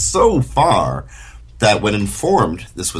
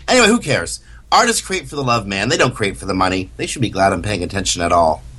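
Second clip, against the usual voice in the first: smug dismissive; faster than usual. Retold or imitated. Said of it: "Robert J. Sawyer's, uh, impression".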